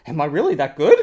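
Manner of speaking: chuckle, half believing the praise; flattered laugh. Retold or imitated. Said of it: "You're like".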